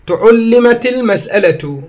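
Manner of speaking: تعلمت slow, with u on the ta and ʕain; slow careful demo of تعلمت; tu-ʕul-li-mat. Shown as a demonstration. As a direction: spell out تعلمت as tuʕullimat. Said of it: "بضم التاء والعين".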